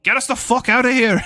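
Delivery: high, loud yell to flee; urgent shout. Acted. Wizard yelling at the driver to flee. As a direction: bark the order to get out now. Petros urges escape after fireball.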